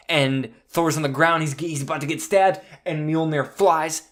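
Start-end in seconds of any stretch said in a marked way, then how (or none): none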